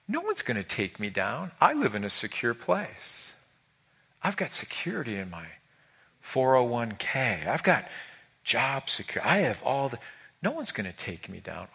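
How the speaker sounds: quiet, smug boast of the self-assured; a proud heart bragging softly to itself; hushed complacent boast; smug self-assurance. Acted. Voicing a smug, secure person.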